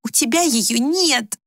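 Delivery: high, slow, emphatic denial; insist, drawing the words out; exasperated retort. A narrator's reading. Daughter snaps back in quarrel.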